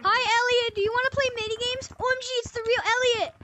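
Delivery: put-on eager little kid with a trashy mic; toy echo microphone. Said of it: "a kid who just has his dollar store mic".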